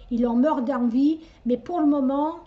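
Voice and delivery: "meurt" rising, in a vague regional French accent; unplaced regional accent. Real, not acted. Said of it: "j'ai pris l'accent de je sais pas d'où".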